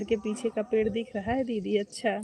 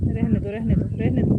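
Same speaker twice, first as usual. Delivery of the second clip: louder, waving it off, leave it, leave it; loud brush-off; 6 dB louder than usual. Real, not acted. Talking to someone off-camera during the live stream, a loud dismissive call. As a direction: call out loudly to stop someone.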